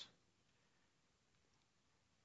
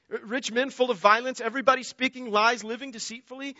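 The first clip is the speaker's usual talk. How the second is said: raised, insistent rhetorical questions; God's indignant questioning; 5 semitones higher than usual. Acted. God questioning his wicked people, mildly indignant. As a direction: press each question like an offended judge, lightly voiced. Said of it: "God says".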